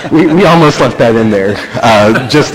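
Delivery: tickled aside to a laughing room; amused. Real, not acted. Joking over audience's laughter.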